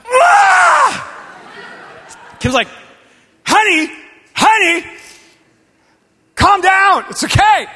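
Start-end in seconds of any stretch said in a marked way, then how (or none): 0.0-1.0 high, loud cry of rage; frustrated scream. Retold or imitated. Pastor kicking a screwed-down chair, screaming in frustration. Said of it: "It's like". 3.5-7.7 loud, high pleading to calm down; urgent calming. Retold or imitated. Wife trying to calm her furious husband, loudly.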